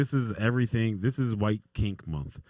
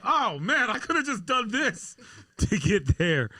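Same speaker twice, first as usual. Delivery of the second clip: high mock voice; 13 semitones higher than usual. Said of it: "I'm like".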